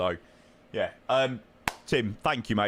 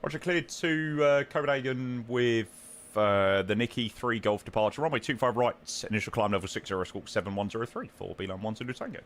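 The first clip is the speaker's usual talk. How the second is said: air traffic control radio. Acted. Pilot readback on radio.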